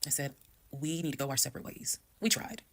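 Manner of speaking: quietly final, no drama; calm and firm. Retold or imitated. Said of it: "exactly how I was talking to him".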